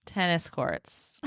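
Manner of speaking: every word stretched very slow; drawn-out annoyed. Retold or imitated. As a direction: spell it out slowly to show you're fed up. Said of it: "B Y Y Y Y Y Y".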